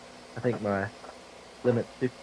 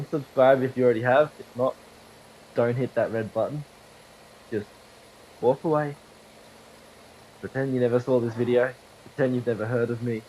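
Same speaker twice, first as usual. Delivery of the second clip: mock dismissive rant; 6 dB louder than usual. Real, not acted. Mock telling haters to leave.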